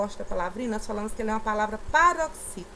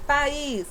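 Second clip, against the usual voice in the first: "País" raised, weight on "ís"; stress on last syllable; 4 semitones higher, 3 dB louder than usual. Shown as a demonstration. Teacher giving pupils another example, stressed "ís" in País. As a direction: lean on the final "ís" of País. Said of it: "última sílaba".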